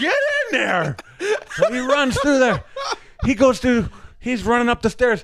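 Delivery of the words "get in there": mock urgent order, raised pitch; urgent hurrying. Doorman rushes the actor inside, urgent. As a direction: send him in with acted urgency.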